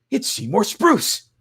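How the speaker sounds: high, slow announcing the name; excited announcement. Acted. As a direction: call out the name like a crowd. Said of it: "I heard those words".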